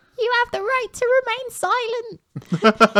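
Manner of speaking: tiniest little voice, very high, like a frog. Narrating a scene, the speaker voices a small frog speaking from the floor: tiniest little frog voice. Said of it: "you just hear the tiniest little voice from the floor go".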